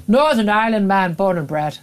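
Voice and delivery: a bad attempt at a Northern Irish accent; a light, badly faked Northern Irish accent; mock Northern Irish accent. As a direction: put on a clumsy Northern Irish accent for a guest. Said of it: "it's a terrible accent".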